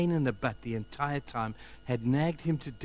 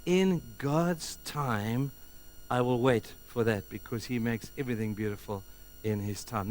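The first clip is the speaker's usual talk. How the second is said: meek cry; 4 dB quieter than usual. Acted. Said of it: "the cry of the meek is to say".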